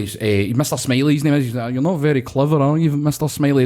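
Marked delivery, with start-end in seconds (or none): 1.7-3.7 lightly put-on lawyer voice, a touch higher; posh lawyer voice. Imitating the prank lawyer mocking the roofer, lightly voiced. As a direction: play the smug lawyer lightly. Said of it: "Pure lawyer voice and on".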